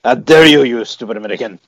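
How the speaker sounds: put-on French accent. Mocking Americans for the cohosts, haughty French accent. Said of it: "it'd be a French accent".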